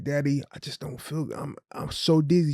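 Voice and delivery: put-on pleading child. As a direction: imitate a sick child asking Daddy for comfort. Imitates sick daughter begging father.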